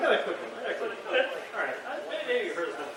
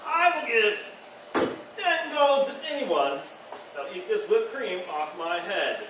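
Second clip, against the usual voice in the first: bald stranger; slower than usual. Retold or imitated. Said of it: "he's like".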